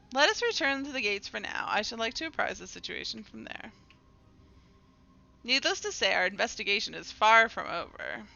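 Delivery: formal game-character delivery; dramatic dialogue reading. Acted. Character proposes a return to the gates, formal dramatic reading. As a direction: read it as a composed leader's lines.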